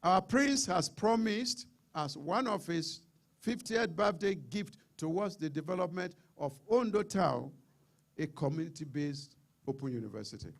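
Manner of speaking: slow, deliberate formal read-out; reading very slowly. Real, not acted. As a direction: read it out slowly, phrase by phrase, so listeners get it. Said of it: "I'll read very slowly here".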